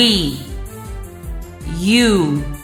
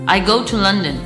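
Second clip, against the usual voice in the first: connected, quicker sentence; said quickly; faster than usual. Shown as a demonstration. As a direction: run the words together.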